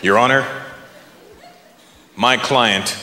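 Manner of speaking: put-on low, solemn lawyer with Indian accent; Indian-accented courtroom address, with pauses. Lawyer addresses judge in serious drama, Indian accent. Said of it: "pop in the Indian accent".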